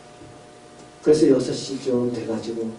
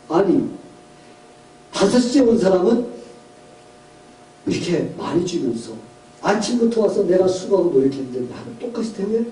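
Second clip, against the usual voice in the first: higher-pitched, aggrieved protest; indignant complaint; 4 semitones higher than usual. Acted. Early workers complain to the owner about equal pay, indignant. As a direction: protest the unfairness in mock anger. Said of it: "하면서 막 화가 났어요".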